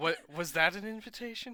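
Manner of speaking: very quiet mumbled mutter under the breath. Speaking in character after another character's remark: said under breath. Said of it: "I say under my breath".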